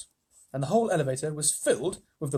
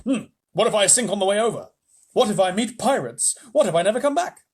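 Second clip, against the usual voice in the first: worried what-ifs; 5 semitones higher, 6 dB louder than usual. Acted.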